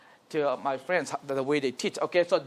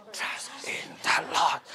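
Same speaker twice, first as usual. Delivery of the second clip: "Trust in the Lord" whispered slowly and lower; proper whisper; 5 semitones lower, 8 dB quieter than usual. Shown as a demonstration. Teacher correcting the class, slow whisper. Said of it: "No, whisper".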